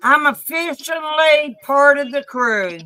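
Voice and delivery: proud loud announcement. Real, not acted. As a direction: call it out to the room.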